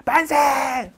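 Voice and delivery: high, loud cry of defiance; shouting hurrah. Retold or imitated. Woman prisoner shouts hurrah at sentencing, loud cry. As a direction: shout it out in the courtroom. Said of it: "만세를 외칩니다".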